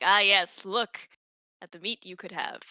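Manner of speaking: high, coaxing and drawn out; tempting illusion voice. Acted. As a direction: dangle the meat with a sly lure. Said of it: "be like".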